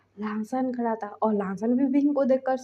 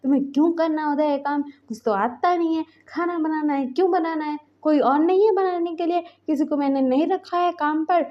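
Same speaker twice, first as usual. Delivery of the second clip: rising, higher exasperated scolding; angry scolding; 4 semitones higher than usual. Acted. Husband scolding partner over cooking, exasperated scolding. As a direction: nag him hard about cooking. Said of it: "गुस्सा किए जा रहे थे".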